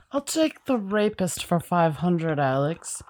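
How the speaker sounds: slow Scottish contestant impression, "the rapist" as two words; Sean Connery. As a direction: imitate him slowly misreading the category. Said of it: "who's the guy that played him".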